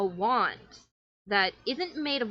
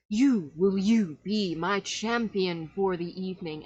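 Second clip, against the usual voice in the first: theatrical magician; slower than usual. Acted. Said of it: "he hands it to the child and goes".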